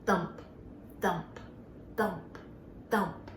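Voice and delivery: low spaced thumps; rabbit thump. Shown as a demonstration. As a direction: thump slowly like a rabbit's foot. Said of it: "Let's listen carefully".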